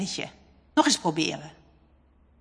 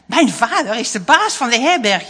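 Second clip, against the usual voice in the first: mock proud boast, louder; proud boy quoted; 3 semitones higher, 8 dB louder than usual. A narrator's reading. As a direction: echo his own boast with mock pride. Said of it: "Hij heeft gezegd". (spottend trots nagezegd)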